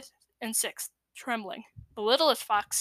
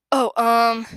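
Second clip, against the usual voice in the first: voice cracking; 12 dB louder than usual. A narrator's reading. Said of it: "voice cracking".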